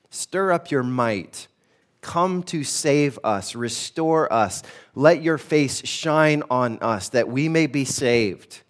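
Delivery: slow, deliberate petition; pleading scripture reading. Shown as a demonstration. Pastor reading the psalm's petitions, slow and pleading. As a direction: read each plea slowly, like a prayer.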